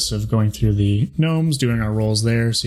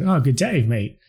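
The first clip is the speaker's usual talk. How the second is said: higher-pitched Australian greeting, falling away; mock Australian accent; 3 semitones higher than usual. Quoting a friend's guess at the accent, mock Australian. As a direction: toss out a stock Aussie catchphrase. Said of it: "none of us can do Australian".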